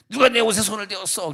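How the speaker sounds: a hint of stage Jesus; Jesus in a play. Stage Jesus asking the crowd, lightly voiced. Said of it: "연극에 등장하는 예수님이".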